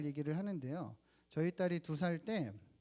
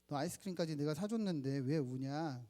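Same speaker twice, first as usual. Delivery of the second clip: startled. Retold or imitated. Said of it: "깜짝 놀라서".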